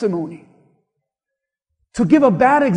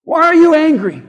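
louder, higher "Why are you angry?" with you stressed; pointed question; 4 semitones higher, 5 dB louder than usual. Retold or imitated. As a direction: press the question hard on "you". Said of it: "literally ask you this question".

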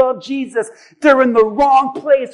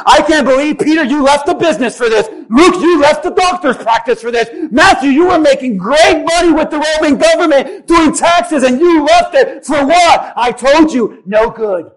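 critical complaint. Retold or imitated. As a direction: sneer at the wasted careers. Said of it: "You know he's saying".

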